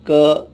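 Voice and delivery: क said as a thick q from the throat; teacher demonstrating guttural क; deep throat q. Shown as a demonstration. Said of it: "इसकी भी आवाज़ हलक से निकलती है".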